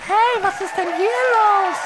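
a startled high cry of who's there; shrill burst. Acted. Sudden new voice bursts in.

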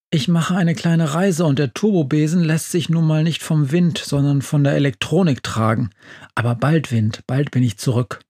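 ordinary delivery, nothing marked

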